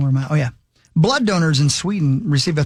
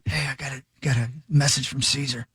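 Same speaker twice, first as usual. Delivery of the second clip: raven voice; 2 semitones lower than usual. Pretend. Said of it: "I'm a raven".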